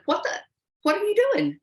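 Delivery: mock road-rage mom; mom yelling at driver. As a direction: blow up at the driver who cut her off. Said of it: "she said".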